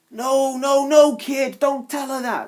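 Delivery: high, worried pleading in a mouse voice. Acted. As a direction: blurt it out in a panic to stop him. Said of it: "Snaptrap said worriedly".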